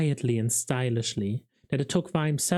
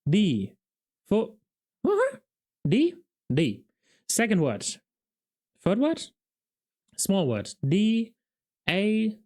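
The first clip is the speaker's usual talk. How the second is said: eager guessing; 6 semitones higher than usual. A narrator's reading. Carrot guessing charades, raised voice.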